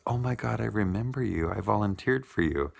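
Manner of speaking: high, bright-eyed surprise at recognizing someone; excited recognition. Retold or imitated. Bartender suddenly recognizing her old coordinator, excited. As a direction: squeal it like you just placed a face.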